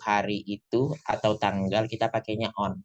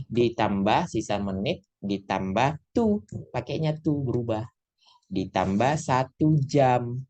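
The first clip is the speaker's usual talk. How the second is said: slow, deliberate formula dictation; dictating a formula; slower than usual. Shown as a demonstration. Teacher dictating the rule to students slowly. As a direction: lay out each part slowly so they can write it. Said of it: "spelling out the formula slowly".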